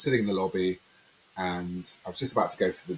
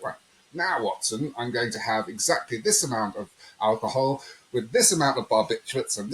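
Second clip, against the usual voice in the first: lightly acted methodical detective, pitch jumping up; mock-precise, lively detective patter; Sherlock Holmes; 4 semitones higher than usual. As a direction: play a hint of an exacting sleuth briefing an assistant. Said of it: "a bit like Sherlock Holmes".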